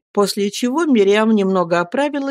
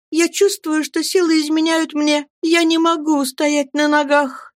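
put-on fainting young woman; 10 semitones higher than usual. Faint girl tells her rescuer she cannot stand, weakening. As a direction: let the strength drain from the voice.

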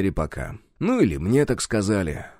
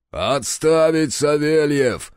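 metallic bark; 5 semitones higher, much slower than usual. Acted. Captain stopping the guard from beating the prisoner, metallic bark. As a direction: snap the order like a machine. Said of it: "металлическим голосом рявкнул капитан".

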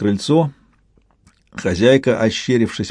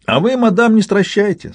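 слащаво, с издёвкой, заметно выше; сахарная угроза с улыбкой; приторно-сладко; 11 semitones higher than usual. A narrator's reading. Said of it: "сахарно улыбнулся Клюков". (приторно-вежливо и насмешливо)

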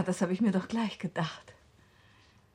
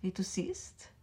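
slow whisper; 6 dB quieter, slower than usual. Acted. Shown green dress.

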